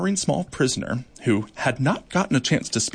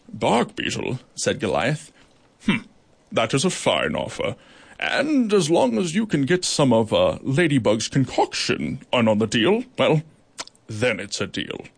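lightly voiced judge. Goliath dismissing the beetle, a hint of a judge. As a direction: dismiss kindly.

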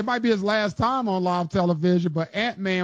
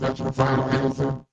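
robot voice; 3 semitones lower than usual. Real, not acted. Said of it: "You just sounded like a robot".

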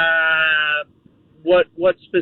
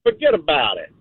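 Italian accent attempt. Shown as a demonstration. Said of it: "Okay, try it".

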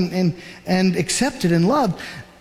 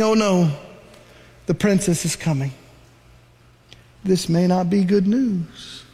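worried; 3 semitones lower than usual. Retold or imitated. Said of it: "Miriam is saying".

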